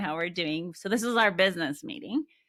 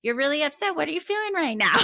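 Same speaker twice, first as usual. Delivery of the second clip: put-on louder, higher voice of a parent quizzing a child; mock upset parent; 9 semitones higher, 6 dB louder, faster than usual. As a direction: push the question at the child, raised and high. Parent naming child's emotion, loud.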